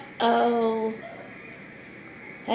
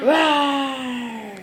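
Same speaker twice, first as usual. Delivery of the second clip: roar; 3 semitones higher, 3 dB louder than usual. Shown as a demonstration. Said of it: "What does a monster truck say?".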